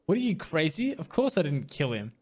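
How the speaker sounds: offended shopkeeper brushing off the question; indignant disbelief. Acted. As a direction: pitch jumps high on "crazy". Manager offended by accusation.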